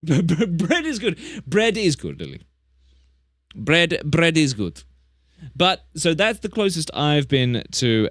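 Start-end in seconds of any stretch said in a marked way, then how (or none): 0.0-4.8 kangaroo voice. Pretend. Voicing the kangaroo with bread.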